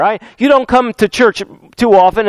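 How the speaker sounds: normal talking voice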